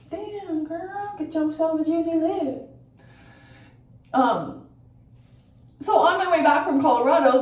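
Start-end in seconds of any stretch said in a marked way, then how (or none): 0.1-2.7 sassy compliment. Pretend. Compliments herself doing makeup.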